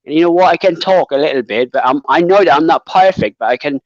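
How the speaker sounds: attempted British accent with a Cockney touch; amateur British accent, chatty. Shown as a demonstration. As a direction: have your best shot at British. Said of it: "give you the best British accent".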